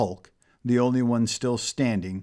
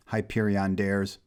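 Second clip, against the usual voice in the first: ordinary delivery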